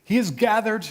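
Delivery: lightly voiced rabbi, pitched a little up; a hint of a rabbi at a burial; rabbi's pronouncement. Rabbi speaking over Matthew's buried father, lightly voiced pronouncement. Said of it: "the rabbi said".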